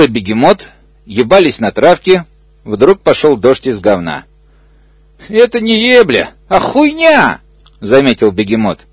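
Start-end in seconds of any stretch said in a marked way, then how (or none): 5.3-7.4 high, indignant squeal, rising to the top. Acted. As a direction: squeal it out in disgust. Hippo complains in shit rain. (высокий возмущённый визг)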